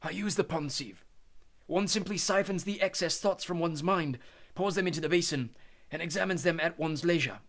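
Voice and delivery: a hint of calm old Dumbledore. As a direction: reassure the boy calmly. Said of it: "said Dumbledore".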